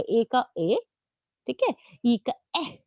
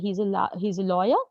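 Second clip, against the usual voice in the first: slow example with a restart; slow example read; 4 semitones lower, slower than usual. Shown as a demonstration. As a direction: spell out the example carefully. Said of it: "teacher reads example sentence". (धीरे उदाहरण बोलना)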